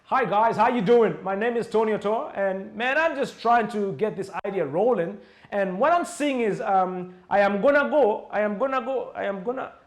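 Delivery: hammed-up cool-guy American-style accent; mock a speaker who switches to an American accent on stage; a speaker showing off a put-on American accent to sound cool; fake American accent. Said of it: "especially with changing accents".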